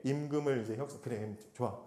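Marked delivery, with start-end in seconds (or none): 1.0-1.8 lower, softer, soothing con-man promise; coaxing Laban. Retold or imitated. Laban soothing Jacob in wage talks, sly and soft. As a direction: sweet-talk him like a sly uncle. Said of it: "하면서 이제 임금 협상을".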